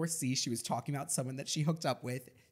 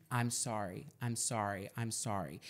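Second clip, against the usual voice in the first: sing-song hollow "I'm sorry", softer and lower each time; mock empty apology; 4 semitones lower, 5 dB quieter than usual. Venting about people who only say sorry, mocking their hollow apologies. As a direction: parrot the lazy apology, dropping away.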